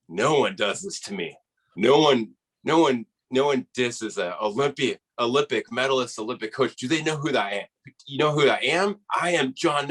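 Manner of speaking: imitating a worked-up, indignant dad, pitch climbing; fired-up dad. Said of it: "my dad's just getting fired up".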